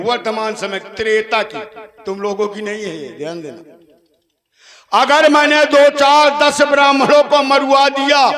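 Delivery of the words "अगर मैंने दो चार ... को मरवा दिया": loud stage declamation, ringing line ends; theatrical challenge to an audience; defiant Ravan. Acted. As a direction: proclaim it to the whole crowd as a defiant demon king. Stage Ravan justifies his deeds.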